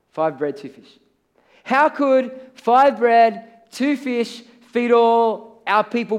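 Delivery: slow, pleading disciples fretting over scraps; a lightly voiced worried disciple, drawn out; doubting disciples. Disciples to Jesus about feeding the crowd, fretful and slow.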